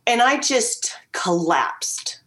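breathy hushed near-whisper, slowed right down; slow whispered confession. Retold or imitated. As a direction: let it drop to a whisper as you give way. Retelling breakdown, whispered.

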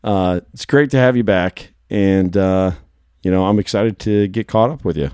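raspy, nearly lost voice; hoarse from shouting at cows. Real, not acted. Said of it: "my voice is, is pretty much gone today".

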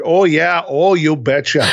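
put-on a light Minnesota accent; lightly put-on Minnesota accent. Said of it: "my Minnesota voice".

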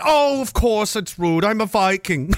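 slow, put-on Danish accent; stretched-out mock Danish accent; Danish grandmother accent. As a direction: imitate a blunt Danish grandma, drawn out. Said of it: "your Danish grandmother's accent".

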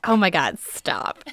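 breathy whispered protest, voice dropping; embarrassed whisper. Real, not acted. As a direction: hush her friend, embarrassed. Embarrassed by teasing about boyfriend.

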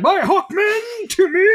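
high, slow booming war cry; Brian Blessed bellow. Retold or imitated. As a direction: bellow it like a hammy warlord. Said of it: "they're like".

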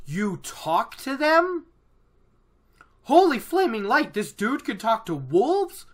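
high-pitched amazed disbelief, hammed up; marveling. Perrin learning a man talks to wolves, acted marveling.

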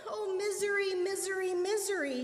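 high, wailing repeated cry; howled lament. A narrator's reading. Woman who tripped and spilled her syrup, howled lament. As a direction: howl it, holding the pitch way up. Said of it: "she howled".

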